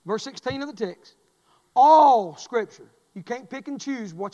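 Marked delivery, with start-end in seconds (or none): 1.7-2.9 loud and slow; booming emphasis. Real, not acted. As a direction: let All Scripture ring. Preacher booms key phrase.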